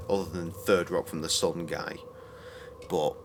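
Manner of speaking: ordinary delivery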